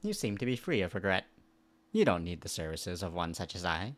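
lightly voiced alien. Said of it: "What voice should I give him?".

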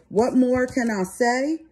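drawn-out, lightly imitated rapper line; a rapper's voice. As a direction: quote it slowly, a light rapper impression. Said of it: "in my rapper voice".

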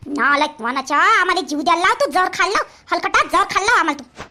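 furious mother berating her son; angry scolding. Acted. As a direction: tear into the worthless boy. Mother scolding son over loss.

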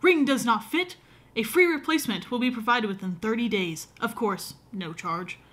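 hammed-up olde English accent reading the note; mock medieval accent. Shown as a demonstration. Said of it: "that accent medieval thing".

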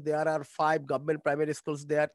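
very slow dictation pace; slow model sentence. Shown as a demonstration. Teacher modelling English sentence to class, very slow. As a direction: spell out each word slowly for learners. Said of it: "model sentence".

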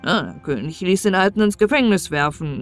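plain reading voice

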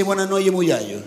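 "noches" softened to "noye"; mocked Canarian che. Islander disputing the stereotype, "noches" quoted as "noye". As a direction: say "muyallo" with y in place of ch. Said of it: "¿Quién de nosotros dice".

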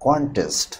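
কন্টেস্ট with its opening syllable weighted; first-syllable stress. Shown as a demonstration. Teacher giving a noun example, first-syllable stress on কন্টেস্ট. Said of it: "stress হবে প্রথম সিলেবলের উপর".

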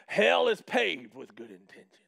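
preacher quoting. Retold or imitated. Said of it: "one preacher say it like this".

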